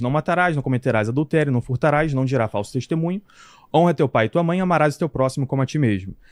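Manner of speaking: plain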